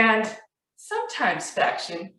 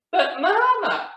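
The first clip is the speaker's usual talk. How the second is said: high, drawn-out cub's protest; whiny Baby Bear; 12 semitones higher than usual. A narrator's reading. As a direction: plead like a little cub, high and stretched.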